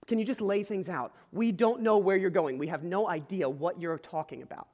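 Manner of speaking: lightly acted pleading with the teacher; exasperated disciple. Thomas begs Jesus to lay things out, mildly exasperated.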